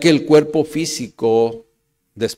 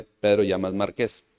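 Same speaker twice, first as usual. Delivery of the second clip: Márquez said low and quietly, stressed on the final E; 6 semitones lower, 6 dB quieter than usual. Shown as a demonstration. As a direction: land Márquez on its last E. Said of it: "con acento en la E". (Márquez con acento en la última E)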